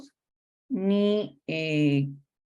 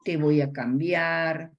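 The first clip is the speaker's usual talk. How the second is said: gentle mother talk; slower than usual. Shown as a demonstration. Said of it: "la madre tiene que manifestar".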